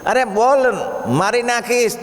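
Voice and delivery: high-pitched mock death threat; acted threat. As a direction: press the demand like a storybook bully. Bully repeats his death threat. (ઊંચા સૂરે ધમકીની નકલ)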